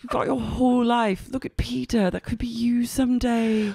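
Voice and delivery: high, mock-earnest warning; put-on boss. Boss pointing waitress at bartender, mock-earnest warning. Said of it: "she goes".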